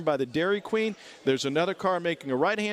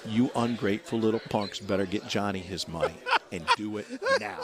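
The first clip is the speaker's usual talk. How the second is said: laughing threat; 4 semitones lower than usual. Retold or imitated. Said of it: "and he goes".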